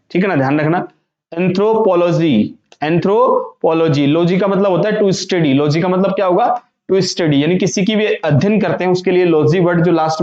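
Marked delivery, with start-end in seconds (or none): 1.3-4.1 slow "एंथ्रोपोलॉजी"; careful pronunciation. Shown as a demonstration. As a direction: say "एंथ्रोपोलॉजी" as anthro, then pology. Teacher models word in two halves.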